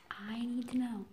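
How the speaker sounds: voiceless and falling; desperate whisper. Real, not acted. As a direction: whisper it again, resigned.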